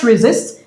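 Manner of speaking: "resist" stressed on SIST; "resist" with a light RE and stressed SIST; stress on second syllable. Shown as a demonstration. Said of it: "stress the second syllable".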